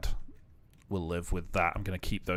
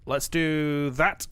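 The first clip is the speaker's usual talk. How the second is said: normal talking voice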